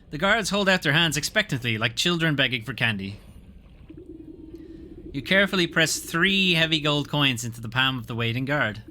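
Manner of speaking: story narration. Acted. Reading game narration.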